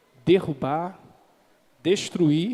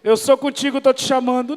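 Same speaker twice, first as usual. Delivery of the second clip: God calling; 5 semitones higher, 4 dB louder, faster than usual. Acted.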